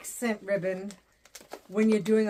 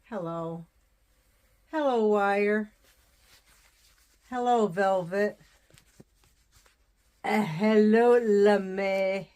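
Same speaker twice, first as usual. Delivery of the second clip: greeting ribbons; 4 dB louder, slower than usual. Pretend.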